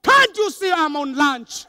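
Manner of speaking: mock exasperated complaint; irritated receptionist. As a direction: make the visitor feel like an intruder. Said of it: "The tone is".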